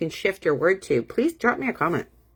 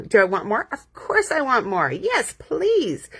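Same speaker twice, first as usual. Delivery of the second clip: eager self-answer, rising higher to the end; with emotion; 3 semitones higher, slower than usual. Shown as a demonstration. Coach modelling wanting more abundance, with emotion. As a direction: answer yourself keenly, lifting on "Yes, please". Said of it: "Say it with emotions".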